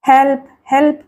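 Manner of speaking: a touch of frightened pleading; calling out for help, lightly acted; pitiful cry for help. Trapped woman crying for help, mildly pitiful. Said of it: "దీనంగా అరుస్తోంది శ్రీలత".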